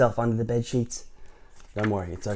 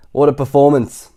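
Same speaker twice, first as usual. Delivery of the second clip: dry remark; 4 semitones higher, 12 dB louder than usual. Acted. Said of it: "commented the worm".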